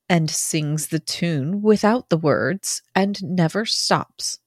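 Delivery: measured, unhurried recitation; poem reading. A narrator's reading. Co-host reading Emily Dickinson's poem on request, measured poem recitation. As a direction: read it as verse, pausing between phrases.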